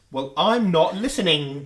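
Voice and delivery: mock actor delivery, "listening" ending in an extra "ga"; slow and stressed, "listening" finished with a hard "ga"; tacked-on "ga" ending. David Tennant's character answering back, "listening" with an exaggerated "ga" ending. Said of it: "he does that on the end of his word".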